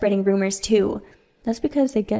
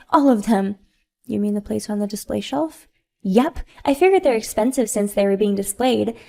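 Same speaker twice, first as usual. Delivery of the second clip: louder, gloating; smug spoiled mom; 4 dB louder than usual. Acted. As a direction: brag about the smashed plates. Sophia brags about smashing plates.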